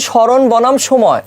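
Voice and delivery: slow, measured term for students; model reading. Shown as a demonstration. Teacher shows students how to read a graph's name, slow model reading. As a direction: spell out the phrase slowly, word by word. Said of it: "আমি কিভাবে উচ্চারণ করব".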